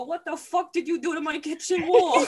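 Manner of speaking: hammed-up angry house owners; mock angry yell. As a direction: yell like outraged homeowners. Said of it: "They come in and go".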